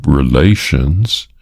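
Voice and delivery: relations leaned on firmly; stress on relations. A narrator's reading. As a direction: press the word relations. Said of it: "she stressed the word".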